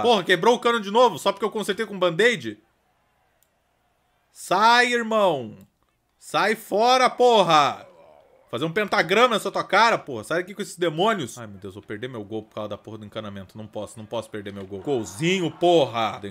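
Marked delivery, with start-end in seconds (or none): 4.3-11.4 high, loud angry yelling; a dad screaming at demon-summoning visitors; furious chasing off. Pretend. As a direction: scream them out the door.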